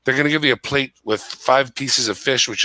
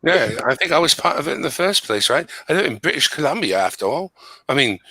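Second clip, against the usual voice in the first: chatty put-on British accent; phony British accent; 3 semitones higher than usual. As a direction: chat away in an amateur British accent. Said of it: "I'm gonna try to put on a British accent".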